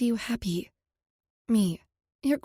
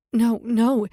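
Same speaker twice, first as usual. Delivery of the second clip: emphatic; 2 semitones higher, 7 dB louder than usual. A narrator's reading. Urgently reassuring him.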